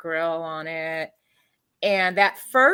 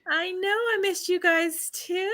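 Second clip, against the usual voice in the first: joyful reunion; 11 semitones higher than usual. Real, not acted. Reunion reply.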